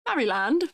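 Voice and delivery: "Maryland" as MARY-LAND, rising in question; Mary-land pronunciation. Shown as a demonstration. Streamer trying the British version on chat, as Mary-land. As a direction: test out "Maryland" with a full "a" in land. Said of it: "Or do they call it Maryland?".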